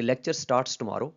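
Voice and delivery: said slowly and evenly; steady slow demo read; first take, even. Shown as a demonstration. Teacher giving the first of four readings, slow and even. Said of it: "इन चारों में".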